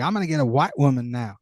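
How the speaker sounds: a lightly put-on Southern urban accent; weird accent. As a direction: slip briefly into a Southern city accent. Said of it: "I don't know where that weird accent came from".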